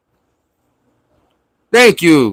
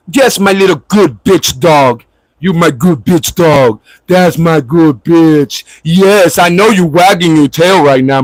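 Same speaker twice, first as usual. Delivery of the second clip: mock dog-praising; 2 semitones lower than usual. Mock pet talk to a troll.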